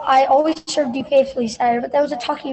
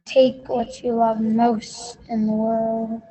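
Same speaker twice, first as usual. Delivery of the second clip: unearthly voice. Acted. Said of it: "a ghostly voice emanated from the statue".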